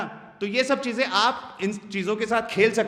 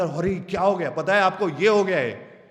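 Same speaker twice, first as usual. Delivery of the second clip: excited demo. Shown as a demonstration. Speaker demos excited pitch to the class, mildly lively. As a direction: show a bit of excitement. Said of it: "ये excitement लग रहा है".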